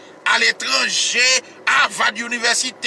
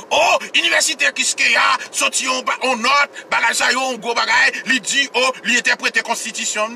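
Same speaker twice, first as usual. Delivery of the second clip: higher, louder pompous mimicry; pompous mock voice; 5 semitones higher, 3 dB louder than usual. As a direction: parody the grand announcement. Mocks the university's pompous claim. (imite inivèsite a ak yon vwa wo, ògeye)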